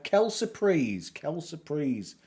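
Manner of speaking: put-on dabbling in a French accent; mock French phrase. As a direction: toss it off like a Frenchman would. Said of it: "as the French would say".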